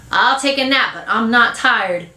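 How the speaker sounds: put-on boyish grumble, slowing on the last words; sulky protest. Boy marching off to nap, sulky. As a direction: give in while still protesting. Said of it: "Kermit marches out saying".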